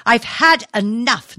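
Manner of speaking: slow, loud outburst; fed up, she lets it out loud and slow; a mother losing her temper at her son; shouting. A narrator's reading. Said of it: "Nora shouted".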